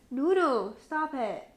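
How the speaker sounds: telling off the puppy, high and sharp then hushed; scolding the dog. Real, not acted. Scolding the dog mid-podcast.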